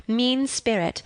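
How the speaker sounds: ordinary delivery, nothing marked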